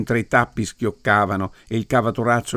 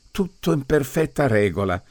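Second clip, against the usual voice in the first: dreamy exclamation; 5 semitones higher than usual. Acted. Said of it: "esclamò il prete trasognato".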